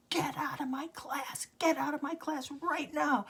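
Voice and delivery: high, rising shouted order; retold scream. Teacher ordering the girl out, half-shouted and high. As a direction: bark the order at the pupil. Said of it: "he screamed".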